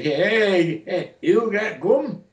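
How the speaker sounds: put-on very slow, very high toothless old man croak. Retelling an old man coming in to ask for gum, toothless old Italian man. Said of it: "an old Italian, and he had no teeth".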